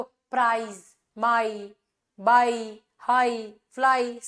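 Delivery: each word of प्राइज, माई, बाई, हाई, फ्लाई held on a smooth 'ah'-to-'ee' glide; gliding diphthong. Shown as a demonstration. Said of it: "एक vowel से दूसरे vowel की तरफ smoothly जाता है". (प्राइज, माई, बाई, हाई, फ्लाई में खींचा हुआ 'आ-ई' स्वर)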